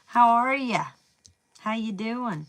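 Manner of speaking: a hint of a bubbly greeter; breezy greeter. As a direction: greet someone like an eager young messenger. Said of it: "Page of Pentacles energy".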